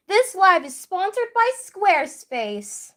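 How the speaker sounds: jokey sponsor announcer voice; hammed-up ad read; mock ad read. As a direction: sell it like a fake ad.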